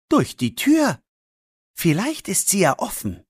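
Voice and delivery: put-on a boy laying out a risky plan; boy Max. Max explains his plan. (leicht erhöhte Jungenstimme, verschwörerisch)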